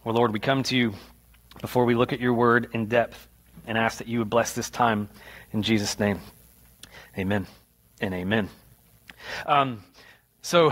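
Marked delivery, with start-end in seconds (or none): 0.0-8.5 pastor praying over the congregation; prayer. Real, not acted. Pastor prays aloud before sermon.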